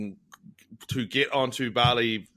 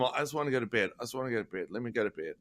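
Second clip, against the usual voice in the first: fading, softer and lower each time; tired mumble; 3 semitones lower, 8 dB quieter, faster than usual. Retold or imitated. Jet-lagged traveller mumbling he wants bed. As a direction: drag it out like you're exhausted. Tired after fifteen-hour flight.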